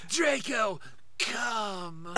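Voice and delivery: mock Voldemort summoning Draco; Voldemort impression. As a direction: hush the call to Draco. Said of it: "the worst".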